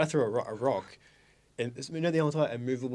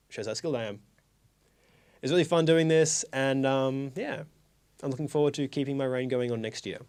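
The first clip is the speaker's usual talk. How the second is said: mock formal speech. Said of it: "I want a speech".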